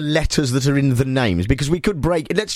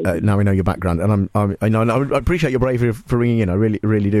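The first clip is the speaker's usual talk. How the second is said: low, gentle reassurance with mock gravity; sympathetic; 5 semitones lower than usual. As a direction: console the caller earnestly, voice dropped. Host consoles a troubled caller.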